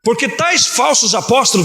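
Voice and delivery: slow, weighty declamation of a verse; deliberate pulpit proclamation; emphatic Scripture reading. Real, not acted. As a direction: read it slowly, landing on each word. Preacher declaims the key verse.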